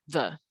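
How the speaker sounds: "the" said very short; very short vowel. Shown as a demonstration. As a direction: clip "the" down to a brief schwa. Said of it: "the is very short".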